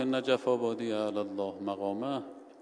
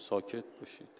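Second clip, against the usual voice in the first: whispered hush to the crowd; quiet them with a whisper; 2 semitones lower, 10 dB quieter, faster than usual. Retold or imitated. Preacher hushes the angry worshippers, whispered. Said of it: "ساکتشون کرد".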